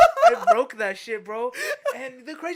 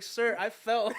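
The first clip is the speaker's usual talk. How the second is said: sheepish report; 9 dB louder, slower than usual. Retold or imitated. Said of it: "literally, I was like".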